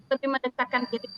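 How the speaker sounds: choppy glitching call audio; breaking up. Real, not acted. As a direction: voice cutting in and out like a bad connection. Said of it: "Suaranya putus-putus".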